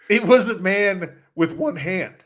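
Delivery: slow punchline breaking into laughter; cracking up. Real, not acted. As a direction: fight laughter through the big reveal. Punchline told while cracking up.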